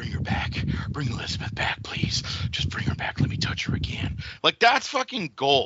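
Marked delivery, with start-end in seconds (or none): 0.0-4.2 breathy, whispered promo-style voice. Praising a wrestler's best promo, imitating Jake Roberts. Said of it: "Jake, when he goes".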